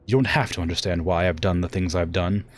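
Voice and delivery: emphatic theatrical threat; formal, commanding villainous challenge; menacing warrior daughter. Acted. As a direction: deliver the ultimatum with proud force. Acts Victoria's threat.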